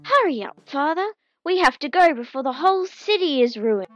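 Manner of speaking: high, loud and pushy; urgent. Acted. Son urging his sleepy father to hurry, impatient. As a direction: hurry him along, he's dawdling.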